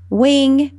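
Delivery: "wing" with a W where the R belongs; imitated lisp. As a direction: imitate the duck saying "wing" for "ring". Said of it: "she has the, um, the lisp".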